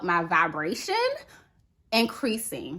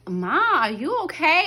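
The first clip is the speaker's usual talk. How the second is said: lightly voiced worried daughter, higher; a hint of a daughter checking on mom; daughter's concern; 6 semitones higher, 4 dB louder than usual. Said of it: "she was like".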